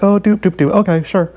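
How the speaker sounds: light sing-song brush-off; breezy fake agreement; mock chipper. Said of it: "I'm just like".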